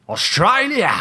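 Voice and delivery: high, loud triumphant cry; loud eureka cry; excited exclamation. Acted. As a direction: shout it like a grand discovery. Detective deduces with excitement.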